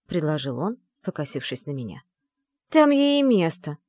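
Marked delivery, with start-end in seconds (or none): 2.7-3.8 higher, louder contemptuous snort; scornful snort. A narrator's reading. Riyana dismisses the heroine, scornful and louder. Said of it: "фыркнула Рияна".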